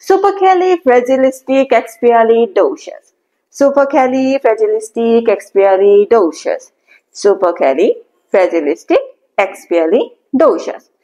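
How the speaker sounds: slow, whole word in one go; slow whole-word model; slowly all together. Shown as a demonstration. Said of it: "Now try to say all together".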